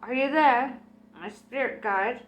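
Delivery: a wavering spooky summons; high quavery voice. Acted. Medium calls her spirit guide in a high quavery voice. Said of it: "in a high-pitched, quavery voice".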